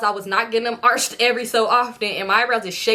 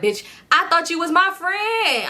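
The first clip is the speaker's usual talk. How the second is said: betrayed; 7 semitones higher, slower than usual. Real, not acted. Betrayed by friend.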